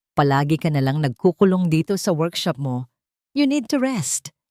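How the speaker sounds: a hint of a condescending mother-in-law; falsely sweet scolding. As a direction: needle her while sounding caring. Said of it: "Ang boses ay matamis, ngunit may pahiwatig ng pangungutya".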